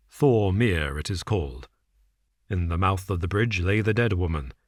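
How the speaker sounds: a hint of a cool, measured detective. Holmes lays out the case to Watson, calm and measured. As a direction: set out the facts calmly, a shade low.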